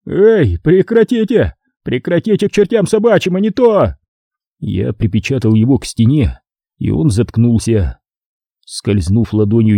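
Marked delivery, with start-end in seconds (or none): 0.1-4.0 high, panicky caretaker protest; caretaker yelling. A narrator's reading. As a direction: squeal at him to stop. Caretaker being slapped. (высокий испуганный крик смотрителя)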